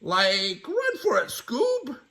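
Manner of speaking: high, loud run-for-it cry; urgent cartoon alarm; Shaggy panicking. Fleeing mummy.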